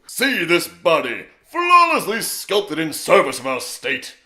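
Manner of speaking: slow, booming, high grandiose shout; General Armstrong. Shown as a demonstration. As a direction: proclaim it slowly at full, hammed-up volume. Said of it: "I'm gonna do General Armstrong".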